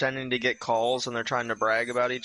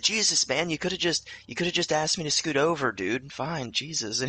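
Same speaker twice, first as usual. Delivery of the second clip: higher-pitched mock exasperation; annoyed protest; 3 semitones higher than usual. Dude reacting to the magician's wailing, acted annoyance. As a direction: imitate an irritated roommate.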